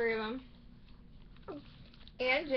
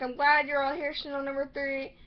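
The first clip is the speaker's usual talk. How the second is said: quoted greeting; 5 dB louder than usual. Retold or imitated. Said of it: "Grace is like".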